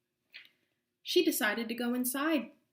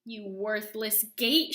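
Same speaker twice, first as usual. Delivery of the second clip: angry scream; 4 dB louder, slower than usual. Acted. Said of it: "she screamed".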